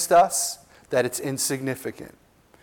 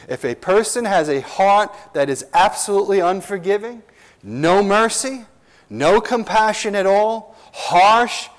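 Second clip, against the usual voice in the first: building intensity; 4 semitones higher than usual. Real, not acted. Preacher builds on unforgiving heart.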